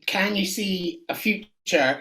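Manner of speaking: slow, portentous crystal-ball question; mock fortune-teller. Shown as a demonstration. To the guest, playing a mystic: slow portentous question. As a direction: draw it out like a seer. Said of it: "get your crystal ball out".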